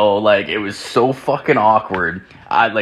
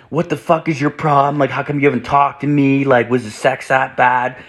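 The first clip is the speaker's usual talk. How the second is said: higher, indignant mock rant; mock angry woman; 6 semitones higher than usual. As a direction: imitate her furious demanding message. Retold angry message from her.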